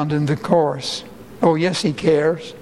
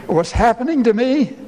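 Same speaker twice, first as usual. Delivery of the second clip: anguished plea; 4 semitones higher than usual. Retold or imitated. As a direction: plead for help in the middle of the storm. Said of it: "join together in this last question".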